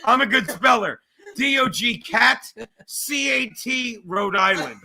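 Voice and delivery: slow, proud dim-witted spelling; dopey cartoon bear.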